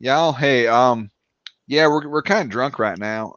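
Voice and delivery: subtle Eastern Tennessee twang; relaxed mock Eastern Tennessee; Eastern Tennessee accent. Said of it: "But Eastern Tennessee, it's".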